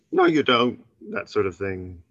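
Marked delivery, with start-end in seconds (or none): 0.1-0.8 dismissive mother. Retold or imitated. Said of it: "It's like".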